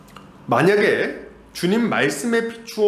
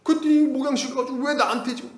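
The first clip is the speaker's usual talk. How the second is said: higher pitched, put-on grumbling; mock complaint; 9 semitones higher than usual. Member complaining in the pastor's office, higher mock voice. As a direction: whine the member's grievance. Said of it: "뭐 이런 얘기를 한 거예요".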